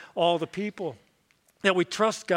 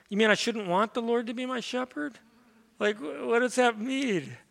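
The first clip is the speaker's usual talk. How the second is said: put-on puzzled child; 5 semitones higher than usual. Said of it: "another one said".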